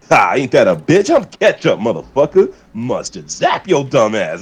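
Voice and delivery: lightly voiced swaggering cartoon villain; Eric the Red voice. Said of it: "and then Eric goes".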